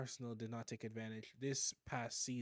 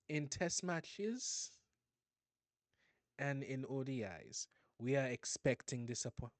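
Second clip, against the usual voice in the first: put-on lightly done Caribbean accent. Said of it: "I'm going to talk in my Caribbean accent".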